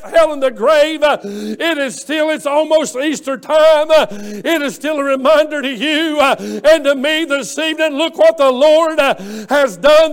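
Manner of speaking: loud, rising sermon cadence; fiery revival preaching; full-force preaching. Acted. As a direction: preach it out to the congregation. Preaching climax.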